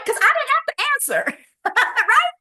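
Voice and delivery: high-pitched, laughing through the words; real laughter. Real, not acted. Trainer amused that callers ask if she's busy, laughing. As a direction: crack up while making the point. Laughing at her own point.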